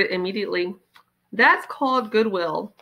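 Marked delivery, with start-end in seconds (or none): 1.3-2.7 slowly. Acted.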